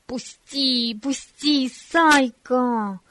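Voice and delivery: angry, drawn-out cry, rising in pitch; furious boy's cry, slowed down; angry shout. Acted. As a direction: yell at him to let go. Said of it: "зло закричал Бориска".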